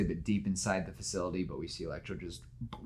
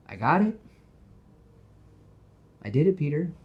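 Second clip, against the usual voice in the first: excited announcement; 7 semitones higher, 6 dB louder than usual. Retold or imitated. Gwen announces her Oxford acceptance.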